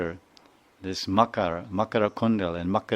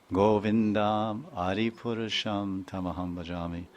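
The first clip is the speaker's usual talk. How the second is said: softly chanted Sanskrit verse, lightly recited; the teacher recites a scripture verse to the listeners, in a soft recitation; 3 dB quieter than usual. Acted.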